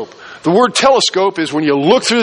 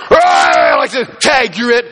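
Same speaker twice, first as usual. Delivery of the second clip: hammed-up tag-playing lion; playful mock lion. Preacher mocking a lion that only wants to play tag, hammed-up shout.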